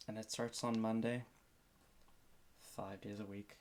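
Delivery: normal talking voice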